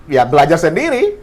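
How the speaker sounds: loud, high-pitched retold reply; retold hesitant answer. Man explains to Australian woman, high retold answer. Acts out his own answer to her.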